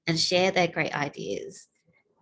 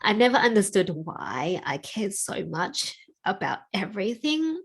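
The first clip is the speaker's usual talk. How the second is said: emotional. Real, not acted. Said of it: "Getting a bit emotional".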